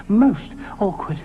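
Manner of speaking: slow, drawn-out repeat; slow Ally grumble. Acted. Ally repeats to himself, slow drawn grumble. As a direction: lean on most, slowly.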